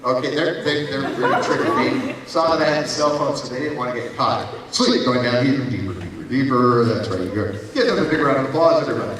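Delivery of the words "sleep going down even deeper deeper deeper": hypnotist voice. Acted. Hypnotist induction.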